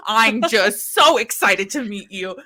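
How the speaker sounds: a touch of frantic fan excitement. Retold or imitated. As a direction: pump her hand and gush. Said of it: "shaking her hand, like, frantically".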